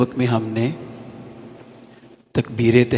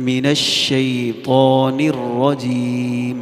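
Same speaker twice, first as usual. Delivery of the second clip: slow, chanted Quran recitation; much slower than usual. Shown as a demonstration. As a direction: recite each letter slowly and fully. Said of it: "پورا پورا حرف ادا کرنا ہے". (آہستہ، ہر حرف پورا ادا کرتے ہوئے تلاوت)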